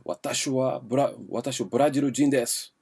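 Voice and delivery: mock a Brazilian learner speaking Japanese in a strong Brazilian accent; heavy Brazilian accent. Shown as a demonstration. Teacher showing students a Brazilian accent in Japanese. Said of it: "com sotaque de brasileirão mesmo falando".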